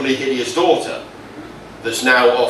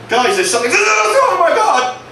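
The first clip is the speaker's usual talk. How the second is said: higher and higher, gasping through a laugh; tiny plant spotting something terrible; alarmed nettle; 4 dB louder than usual. Acted. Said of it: "Steve the nettle discovers something".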